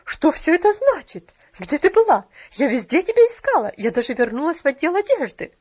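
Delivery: loud, stern reproach; icy scolding. A narrator's reading. Mrs. Carew who searched everywhere, sternly scolding the child. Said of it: "ледяным тоном".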